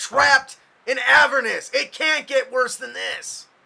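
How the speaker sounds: very loud, rough shout. A character answers a woman called ma'am, shouting. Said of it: "I don't mean to to shout at you".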